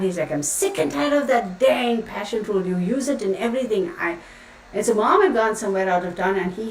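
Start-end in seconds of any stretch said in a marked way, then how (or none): 0.3-3.9 mock fed-up dad, higher at the start; imitating angry dad. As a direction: play an exasperated dad complaining, without shouting. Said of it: "he was so mad".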